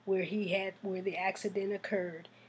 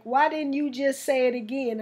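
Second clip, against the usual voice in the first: sister's question; 4 semitones higher, 5 dB louder than usual. Retold or imitated. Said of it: "she put it like".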